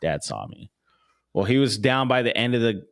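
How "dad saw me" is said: voicing the dog. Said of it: "He's like".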